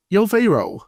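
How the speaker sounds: casual high "Yo, Pharaoh" dropping into a slow, drawn-out decree; Moses as a dude. Retold or imitated. Moses telling Pharaoh to free his people, mock-casual. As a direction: play Moses as a chill bro laying down the law. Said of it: "Moses is like".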